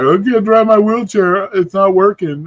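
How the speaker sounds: high imitation of mom complaining; mock helpless mom voice; mom's quote. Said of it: "So she's like".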